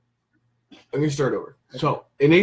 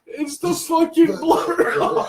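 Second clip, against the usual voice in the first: laughing; 11 semitones higher, slower than usual. Real, not acted. Speaker laughing helplessly.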